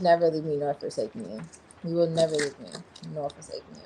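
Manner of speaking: lightly mock a British accent on the vow. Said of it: "In the British accent. Or English accent".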